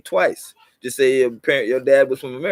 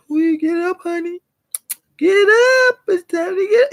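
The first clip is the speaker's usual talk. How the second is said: much higher mock shout to rise; mock wake-up yell; 14 semitones higher than usual. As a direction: holler like waking a sleeper, hammed-up.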